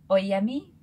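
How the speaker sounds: fumbled attempt at the name; first try. Shown as a demonstration. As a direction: stumble on the name. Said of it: "I think".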